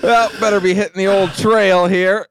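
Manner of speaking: upbeat folksy Midwest voice; Minnesota accent. Pretend. Playing Midwesterner leaving.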